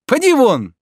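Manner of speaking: high, loud, shooing the servant off; impatient dismissal. A narrator's reading. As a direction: send him away sharply. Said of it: "с нетерпением".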